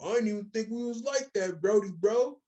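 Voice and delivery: mock tough guy. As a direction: bark it like a guy squaring up. Acted street confrontation quote.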